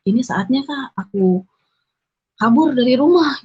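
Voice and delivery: a sudden thrilled idea of escape; excited inner thought. Retold or imitated. Thinking to herself that it's her chance to run away, building to excited. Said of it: "dalam hati tuh kayak bilang".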